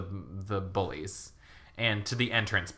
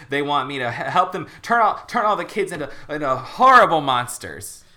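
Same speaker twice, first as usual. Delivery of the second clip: loud, rushed, frantic confession; panicked blurting; 3 semitones higher, 4 dB louder than usual. Acted. Ricky frantically tells his parents about the creeps, loud and panicked. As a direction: spill it all out in a panic, building to a cry.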